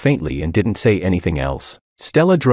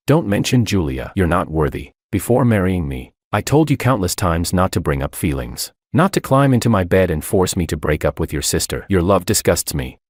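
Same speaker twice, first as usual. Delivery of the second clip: ordinary delivery, nothing marked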